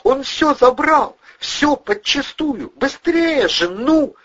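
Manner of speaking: high falsetto screech, loud and slow; falsetto yelling. A narrator's reading. Furious blonde berating Valeriy and Vovchik, high falsetto screaming. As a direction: scream insults in a shrill woman's falsetto. Mila urging them on.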